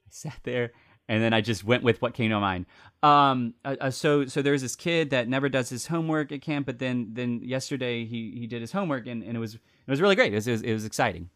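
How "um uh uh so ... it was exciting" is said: nervous, stammering, higher answer; flustered scramble. Retold or imitated. Young camp director flustered in front of Rob. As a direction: scramble for words under pressure.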